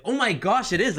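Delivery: high-pitched retold amazement; astonished realisation. Husband retelling how he recognised her brother, astonished. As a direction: replay the jolt of suddenly recognising someone.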